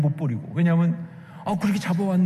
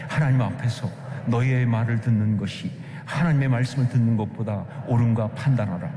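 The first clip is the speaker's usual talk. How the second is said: low, measured scripture recitation; scripture reading; 8 semitones lower than usual. Acted. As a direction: read the verse aloud evenly for a congregation to follow. Reads scripture aloud with congregation. (낮고 차분하게 성경 봉독)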